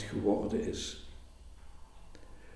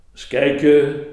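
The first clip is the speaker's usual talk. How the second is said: bright, louder "let's see" of a teacher; lively teacher; 3 semitones higher, 8 dB louder than usual. A narrator's reading. Teacher to pupils, voiced louder and livelier. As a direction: tease the class with the die. Teacher rolls die for class.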